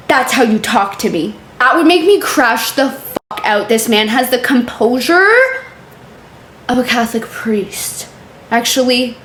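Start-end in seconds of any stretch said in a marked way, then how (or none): 3.7-8.1 sly aside under the breath; whispered punchline. Pretend. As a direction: drop to a hush for the last words. Joke punchline dropped to whisper.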